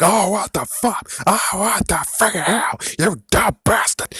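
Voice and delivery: high, loud mock outrage from the crowd; mocking angry fans. Mocking the fans who hated the reveal, high and loud. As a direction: squeal it like a fan throwing a tantrum. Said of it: "And everyone's like".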